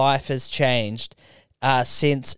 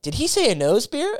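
laughing commentator; 10 semitones higher than usual. Retold or imitated. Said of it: "the commentator's like".

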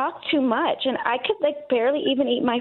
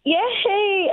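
cheering yay; 8 semitones higher than usual. Real, not acted. Caller cheers on live radio.

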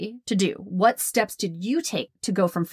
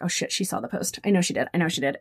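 mildly panicked inner voice, kept down; understated, low-key retold panic; retold dread; 3 semitones lower than usual. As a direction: replay anxious thoughts under your breath. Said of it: "I was terrified".

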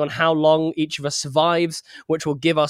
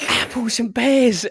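high, drawn-out mock Cockney; Cockney accent; 8 semitones higher, slower than usual. Host echoing his co-host's Cockney phrase, slow Cockney accent. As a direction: echo a slow, comic Cockney catchphrase. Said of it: "Cockney phrases is just the funniest thing".

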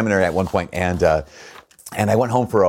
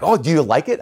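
voicing mom; 7 semitones higher, 4 dB louder than usual. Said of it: "And she's like".

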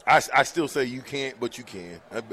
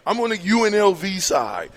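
shout; 5 semitones higher, 5 dB louder than usual. Real, not acted. Joking about picking sides.

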